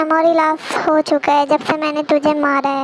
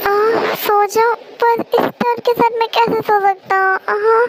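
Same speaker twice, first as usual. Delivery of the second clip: pained whimper; 3 semitones higher than usual. Acted. In pain after being hit.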